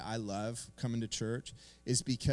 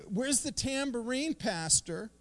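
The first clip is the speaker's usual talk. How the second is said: excited churchgoer; 10 semitones higher, 3 dB louder, slower than usual. Retold or imitated. Mocking an overexcited churchgoer.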